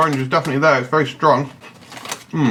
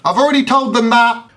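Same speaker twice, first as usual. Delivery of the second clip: high mock voice; 10 semitones higher, 3 dB louder than usual.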